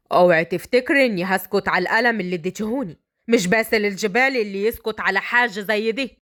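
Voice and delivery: low male warning; proud man threatening payback; menacing bridegroom. Acted. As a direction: warn her not to expect silence.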